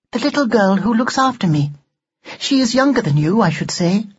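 high, formal doll voice; prim talking doll. Acted. Doll explaining Victoria to Ned and asking his age, primly. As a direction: question the boy in high, precise tones.

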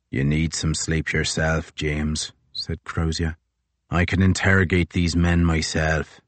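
a hint of a grim, tired commander; gruff captain. Crozier to Fitzjames, low and grim.

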